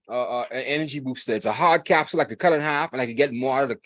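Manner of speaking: ordinary delivery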